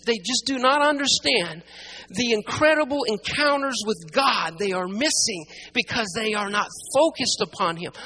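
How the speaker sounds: forceful, emphatic sermon delivery; impassioned preaching. Real, not acted. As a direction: drive it home to the congregation, building in force. Preacher builds to full force.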